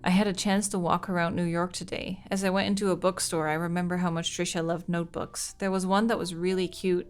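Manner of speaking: steady letter reading voice; reading a diary aloud. Acted. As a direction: read the diary entry evenly.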